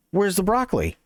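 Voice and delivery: a bored customer asking again, slightly irritated; impatient customer. Retold or imitated. Customer asks again, annoyed.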